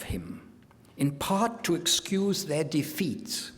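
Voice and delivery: put-on German-accented propagandist's declamation; mock German accent. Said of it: "speaking with a mock German accent".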